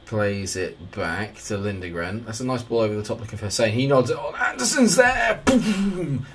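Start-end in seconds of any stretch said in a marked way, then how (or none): 4.3-6.3 very high, drawn-out goal shout; excited goal call. Real, not acted. Gamer calling Anderson's goal, high excited squeal. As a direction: squeal the call as the shot goes in. Live call of his team scoring.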